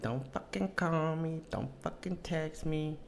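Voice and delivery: put-on high, slow Latina-accented telling-off; mock Latina accent. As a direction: imitate a Latina ex drawing out each warning. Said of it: "you know, the Latinas".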